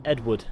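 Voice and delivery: "Edward" as British game characters say it; mimicked British "Edward"; British characters' pronunciation. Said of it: "they sound like they're saying".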